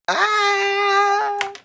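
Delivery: sudden high shout of joy; excited scream. Real, not acted. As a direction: let out a thrilled scream. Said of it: "That's the scream we've been waiting for".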